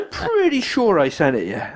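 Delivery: hammed-up tipsy festival-goer; drunk caller. The drunk caller insisting he sent his CV, mock slurred. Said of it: "he sounded so pissed".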